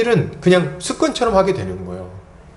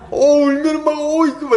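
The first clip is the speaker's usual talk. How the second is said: melting parent; 11 semitones higher, 3 dB louder than usual. Retold or imitated. Acts parent's heart melting at tears.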